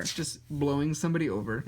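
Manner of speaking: ordinary talk, nothing marked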